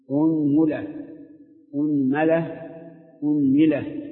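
أنملة as unmula, unmala, unmila; أنملة with u on the hamza and each vowel on the meem; damma hamza, three meem vowels. Shown as a demonstration. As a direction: run أنملة through u, a, i on the meem. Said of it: "ضم الهمزة وثلث في، في الميم".

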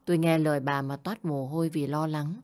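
ordinary delivery, nothing marked

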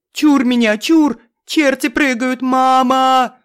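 намного выше и громче; вопить в суеверном ужасе; панический крик. A narrator's reading. Семён в ужасе от жуков. (Семён кричит про чертей, выше и громче)

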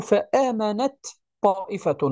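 فآمنت طائفة said slowly, the ta of فآمنت doubled into the ta of طائفة; ta merged into ta. Shown as a demonstration. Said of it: "فنقول". (إدغام تاء فآمنت في طاء طائفة)

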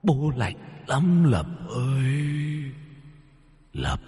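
low, soft, slow hollow ghost call; cold ghostly father. Acted. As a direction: moan like a hungry, freezing spirit. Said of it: "âm thanh lạnh lẽo vang lên". (giọng hồn ma người cha lạnh lẽo)

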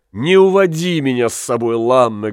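a hint of a wife begging him not to take her; pleading wife. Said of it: "говорила она".

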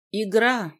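booming demon voice in her head; fire demon. Acted. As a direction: thunder it out like a monster. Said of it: "набатом прогремел голос демона в голове".

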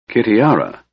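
tight, strained voice. A narrator's reading. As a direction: force the name out tightly. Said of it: "said in a strained voice".

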